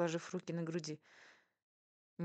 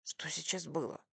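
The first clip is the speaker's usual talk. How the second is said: understated, barely lowered aside; hushed question. A narrator's reading. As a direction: ask it discreetly under your breath. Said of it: "шепнул муж".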